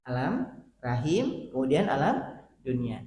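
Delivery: slowly spelling out each stage; slow, deliberate teaching recap; slow repeat. Shown as a demonstration. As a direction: drill the three stages slowly, word by word.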